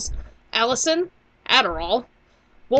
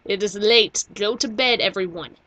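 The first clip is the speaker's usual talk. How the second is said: mom voice; 6 dB louder, slower than usual. Retold or imitated. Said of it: "Mama Rose says".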